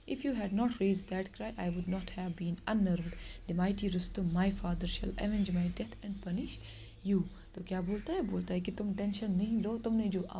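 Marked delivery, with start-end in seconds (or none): 0.1-7.2 slow, measured reading of a tale; story reading. Acted. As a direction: read each word out slowly for the class. Teacher reads story aloud. (धीमी आवाज़ में कहानी पढ़ना)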